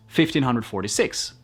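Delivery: "Fifteen hundred forty-six" as one compact run. Shown as a demonstration. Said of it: "Más rápido".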